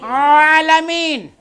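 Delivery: very slow, loud alamin with the Arabic ʿain; careful correct recitation. Shown as a demonstration.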